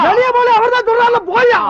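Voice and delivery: high-pitched, insistent shooing; exasperated ordering. Acted. Medium telling the ghost to go, exasperated.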